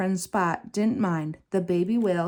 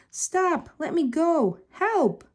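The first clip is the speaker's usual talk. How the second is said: much higher, panicked shouts; frightened cry for help; 9 semitones higher, slower than usual. A narrator's reading. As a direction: scream for help as she is grabbed. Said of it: "she shouted".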